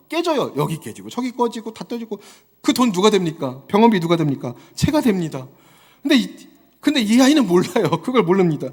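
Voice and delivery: usual speaking voice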